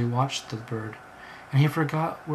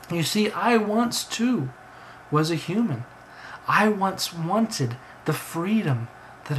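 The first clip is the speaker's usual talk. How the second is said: talking bird, imploring; 3 semitones higher than usual. Acted. Bird pleads and tells its story.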